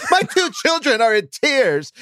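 put-on high whiny Valley Girl voice. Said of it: "the whiny girl voice".

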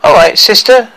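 high, loud dwarf voice; bossy dwarf. Acted. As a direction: order the captive along. Dwarf takes hold of captive.

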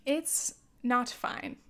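slow, even "It's not fine" with weight on "It's"; slow resigned. Real, not acted. Telling listeners about the planet, slow and resigned. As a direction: let "It's not fine" sink slowly. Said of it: "repeats the phrase twice".

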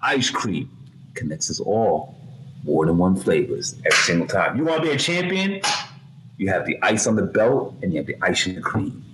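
high, booming hype-man promo; wrestling promo. Acted. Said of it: "cut a promo in what we like to call promo class".

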